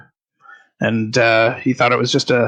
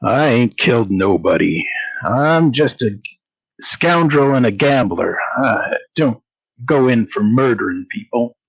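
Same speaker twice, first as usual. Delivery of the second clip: eye-rolling scoundrel; 2 semitones lower than usual. Acted. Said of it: "rolls his eyes and says".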